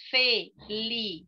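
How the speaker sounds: "Felicidade" split into five separate syllables; one beat at a time through "Felicidade". Shown as a demonstration. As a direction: say "Felicidade" as fe, li, ci, da, de with gaps. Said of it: "cinco sílabas".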